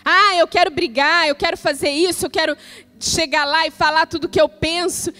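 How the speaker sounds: worked-up venting. Pretend. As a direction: act out someone itching for a fight. Acts out someone itching to fight.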